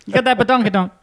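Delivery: high, far-off mock catcall voice; hammed-up leering whistle-voice. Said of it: "I was like".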